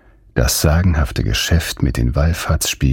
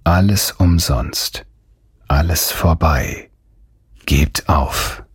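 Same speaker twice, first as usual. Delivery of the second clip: slow, understated jeer; mocking taunt; slower than usual. A narrator's reading. A voice sneers into their ears, slow and mocking. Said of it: "die ihnen ins Ohr höhnte".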